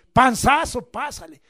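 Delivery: a hint of a teacher reading out a grade; mock teacher grading. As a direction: call out the barely-passing grade. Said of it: "A ver tu boleta".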